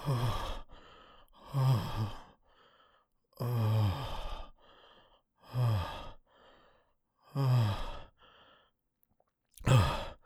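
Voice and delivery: spent, sighed ohs with long gaps; catching breath. Acted. Speaker recovering beside partner, breathless sighs. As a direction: sigh out each oh while recovering.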